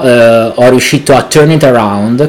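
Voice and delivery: Italian with English words mixed in; english accent in italian. Real, not acted. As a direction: slip into English mid-sentence. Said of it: "perché sto parlando in inglese". (italiano con accento inglese)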